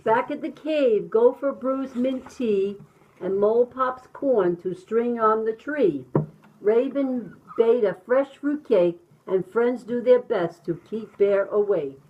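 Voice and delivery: animated, rhythmic picture-book narration; reading to children. A narrator's reading. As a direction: bounce through the rhyme with sound effects.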